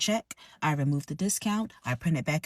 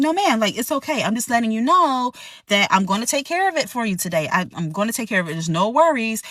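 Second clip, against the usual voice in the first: customer service voice; 3 semitones higher, 3 dB louder than usual. Retold or imitated. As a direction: placate her brightly. Server soothing upset guest.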